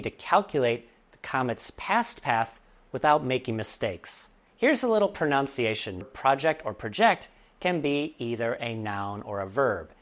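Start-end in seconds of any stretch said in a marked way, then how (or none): 6.1-7.3 PROject, then proJECT; both stresses of project. Shown as a demonstration. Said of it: "the stress changes depending on its use".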